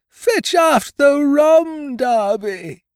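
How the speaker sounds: very high, loud, slow ghostly call. Acted. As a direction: cry out the order like a dead captain. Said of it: "rising a little higher".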